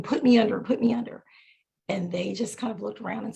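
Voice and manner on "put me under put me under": mild mock yell; insistent repeated plea, only slightly raised; retold screaming. Patient retells demanding anesthesia, mild mock scream. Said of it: "I started screaming".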